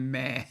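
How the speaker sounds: drawn-out imitated bleat; sheep bleat. Reading a viewer's comment on exhaust noise, sheep bleat. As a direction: imitate a sheep with a long meh. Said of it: "sounded more like a sheep".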